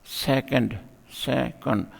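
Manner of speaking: सेकंड in two beats, said twice; split into syllables. Shown as a demonstration. Teacher giving a two-syllable example, split into syllables. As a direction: sound out both syllables of सेकंड. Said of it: "two syllable है".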